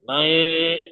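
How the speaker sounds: "मैं" stretched very slowly through the nose; long nasal hold. Shown as a demonstration. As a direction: hum out the end of "मैं" nasally. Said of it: "नाक बंद के पढ़िए आप लोग".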